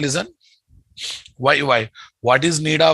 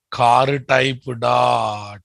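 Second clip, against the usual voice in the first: slow dictation; much slower than usual. Shown as a demonstration. Dictating code slowly to class.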